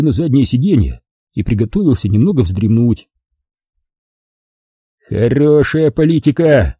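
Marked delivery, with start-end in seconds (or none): 5.1-6.8 irritated. Acted. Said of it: "раздражённо бросил он".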